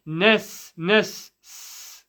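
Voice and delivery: Nas said with a crisp clear seen. Shown as a demonstration. Teacher isolating the seen sound. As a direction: stretch the s in nas, not sad. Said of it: "seen, very clear".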